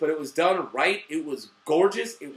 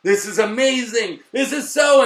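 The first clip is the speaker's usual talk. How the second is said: excited fan reaction; 4 dB louder than usual. Retold or imitated.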